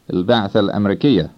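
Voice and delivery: "Al-Ba'th Al-Amrikiya" linked as il-ba'thal-amrikiya; I merged into A. Shown as a demonstration. Teacher giving the Arabic for American mission, vowels merged. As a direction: run "Al-Ba'th Al-Amrikiya" together, one A joining the words. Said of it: "with the I merging into the A".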